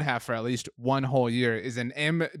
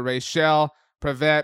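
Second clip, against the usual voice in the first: announcer name call; 4 dB louder, slower than usual. Acted.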